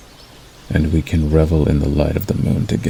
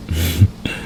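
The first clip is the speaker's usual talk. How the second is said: quiet chuckle; 5 dB quieter than usual. Acted. Amused at imagined betrayal.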